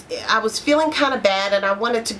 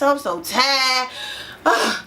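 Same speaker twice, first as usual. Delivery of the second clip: weary complaint. Pretend. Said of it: "You're actually saying".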